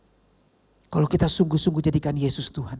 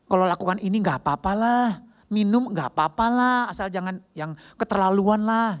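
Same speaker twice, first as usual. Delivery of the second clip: imitated easygoing shrug-off; carefree excuse; 5 semitones higher than usual. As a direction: excuse yourself breezily. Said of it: "Dulu kita pikir".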